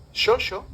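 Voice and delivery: "xoxo" as "shosho", slow; original pronunciation. Shown as a demonstration. Lecturer revealing the old Romance word, sh sounds. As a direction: say both x's in "xoxo" as sh. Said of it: "tal cual".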